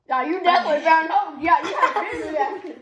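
talking through laughter; teasing laugh. Real, not acted. Laughing at friend's reaction.

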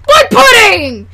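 drawn-out, hammed-up shout; sudden mock outburst. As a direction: burst out over your own calm talk.

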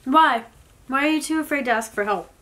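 ordinary delivery

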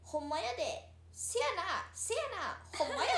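hammed-up Osaka back-and-forth; mock Osaka chatter. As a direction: punch out Osaka catchphrases, playfully loud. Mimicking chatty Osaka talk.

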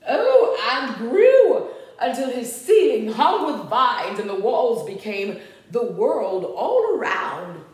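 lively, sing-out story reading; storybook narration. A narrator's reading. Reader tells children of Max's room, storybook narration. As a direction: read it to small children, animated.

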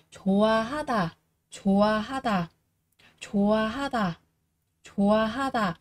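"좋아하다" opening as jo-a, the first ㅎ silent; teacher drills the silent H for learners, linked "좋아하다". Shown as a demonstration. Run "좋아" straight from vowel to vowel in "좋아하다". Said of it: "coi như câm đúng không ạ".

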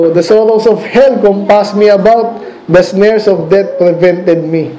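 slow, solemn verse reading; scripture reading. Acted. Preacher reading the psalm to the congregation, slow and solemn. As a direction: read the psalm deliberately, word by word.

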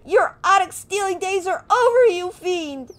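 put-on high, loud squeaky kid hero; hammed-up brave little kid; terrible voice acting. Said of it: "Sorry about the terrible voice acting".

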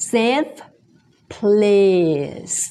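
"safe place" slowly, with F, L and a final S; careful teacher's "safe place", each consonant clear; F, L, S sounded. Shown as a demonstration. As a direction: end "safe" on F, "place" on a hissed S. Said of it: "แล้วก็มี S".

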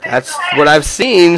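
slow, laughing through it; slow laughing excuse. Real, not acted. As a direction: chuckle while excusing himself.

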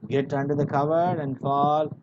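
mildly irritated order, rising in volume. Retold or imitated. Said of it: "he got irritated".

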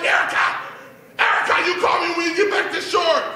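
high, loud commanding shout; frantic dad. Acted. Dad ordering daughter to call, frantically shouting. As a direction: shout orders in mock panic.

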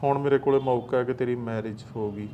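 low, slow menacing read of a blackmail message; reading a threat. Acted. Uncle reads the blackmailer's messages aloud, low and slow menace.

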